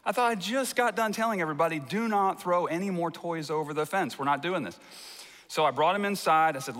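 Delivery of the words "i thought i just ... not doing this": mildly indignant dad, pitched up and hurried at first; half-acted parental exasperation; retold exasperation. Preacher retells catching his son at the fence, exasperated.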